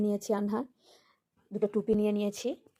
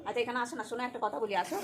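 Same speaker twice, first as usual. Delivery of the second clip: soft calling; 10 dB quieter than usual. Real, not acted. Mother softly calls child close. (নরম গলায় ডাকা)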